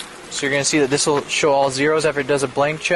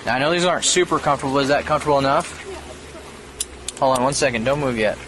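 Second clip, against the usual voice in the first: body cam audio; 5 dB quieter than usual. Real, not acted. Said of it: "you're still being audio and video recorded".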